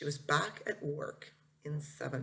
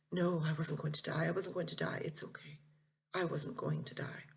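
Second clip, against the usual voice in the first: softer and softer until it becomes a whisper; gentle reassurance; 4 dB quieter than usual. Acted. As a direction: reassure him tenderly, fading into a whisper. Mom reassures her crying son.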